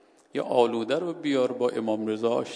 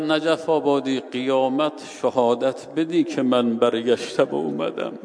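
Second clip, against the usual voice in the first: calling out; 2 semitones higher, 8 dB louder than usual. Retold or imitated. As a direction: call out to him across the mosque. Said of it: "صدا زد".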